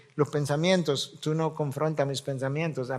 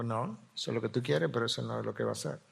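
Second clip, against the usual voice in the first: quiet inner rebuke; 4 semitones lower, 9 dB quieter, faster than usual. Retold or imitated.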